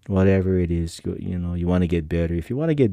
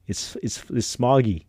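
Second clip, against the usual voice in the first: lame excuse; 3 semitones higher than usual. Retold or imitated. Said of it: "that was my excuse".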